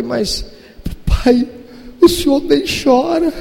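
put-on a child's wounded complaint; imitating daughter. Father voices crying daughter.

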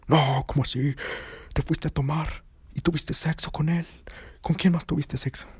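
high, pushy accusing voice; jealous accusation. Retold or imitated. Boyfriend accusing drunk girlfriend of sleeping with David, high and pushy. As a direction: accuse her of cheating.

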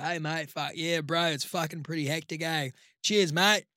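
lightly put-on bogan Aussie; matey broad Aussie accent; thick Aussie accent. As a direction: imitate a Queensland bogan, broad Aussie vowels. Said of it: "like, a thick Aussie accent".

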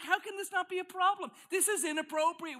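high, loud hammed-up protest; mock indignation. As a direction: object loudly as if scandalized. Acts out indignation at the couple.

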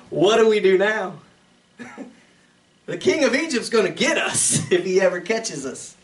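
laughing through a mock panicked plea. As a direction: play the scared brothers, half laughing. Brothers panicking, voiced with laughter.

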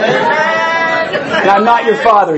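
slow, lightly voiced Vader line; a hint of Darth Vader. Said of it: "I'm not Darth Vader".

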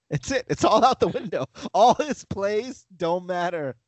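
ordinary talk

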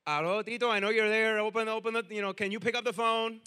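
loud, insistent answering-machine message; imitating grandma. Grandma calls Tito's answering machine, mock insistent. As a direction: nag into the machine until someone picks up. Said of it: "I would have my grandma do this".

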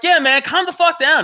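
retelling own brush-off. Retold or imitated. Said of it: "I'm like".

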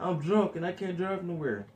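mock drunken confession, drawn out; imitated drunk girl. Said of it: "this drunk girl".

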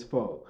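"fo" ending on the vowel, no R; dropped final R. Shown as a demonstration. Showing how he talks at home, "fo" with the R dropped. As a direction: say "fo" the at-home way, R left off. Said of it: "when I'm at home, it's fo".

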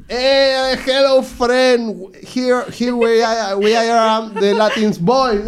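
put-on high, slow, drunk Latin-accented English; drunk Latino English. Retelling drunk friends greeting a bartender, slow drunk Latino English. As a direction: drawl it out like a drunk Latin guy. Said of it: "y borracho".

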